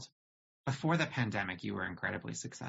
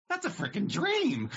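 higher, louder, laughing shout; thrilled outburst; 8 semitones higher, 5 dB louder than usual. Retold or imitated. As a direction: blurt it out with delighted disbelief. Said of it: "And I was like".

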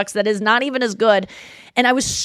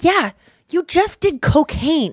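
mock dismissive; 6 semitones higher, slower than usual. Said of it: "someone was like".

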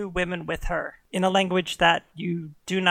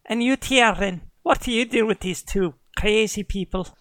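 Irish huntress; 3 semitones higher than usual. Acted. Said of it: "slipping into Irish now".

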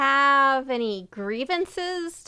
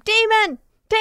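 high, louder mock scream; retold scream; 10 semitones higher, 5 dB louder, faster than usual. Scared child under attack in bed, retold scream. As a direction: cry out in imitated childhood terror. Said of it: "Until I started to scream".

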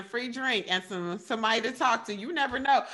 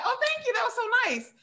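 mock grateful; 12 semitones higher, faster than usual. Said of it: "should I be like".

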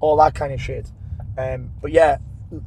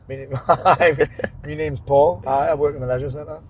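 put-on grown-up voice; slower than usual. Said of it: "You should put on a deep voice".

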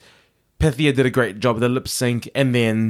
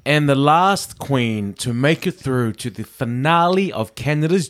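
dramatic announcer reveal. Acted. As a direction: drag out the announcement for suspense.

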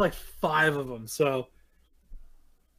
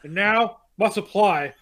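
dramatic reading. Acted. Reads the book's diary entries.

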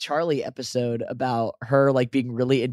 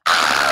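fake burning scream; 9 semitones lower, 4 dB louder than usual. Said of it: "pretending to burn to death".

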